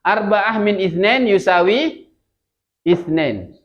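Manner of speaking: slow Arabic demonstration with drawn-out words; model reading. Shown as a demonstration. Teacher showing students a subtraction, slow model reading. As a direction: say the subtraction slowly for learners. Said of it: "Kenapa isnain?".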